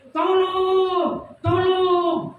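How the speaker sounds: high, desperate calls for help; terrified cry for help. Retold or imitated. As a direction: cry out in panic for someone to save you. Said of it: "saya berteriak".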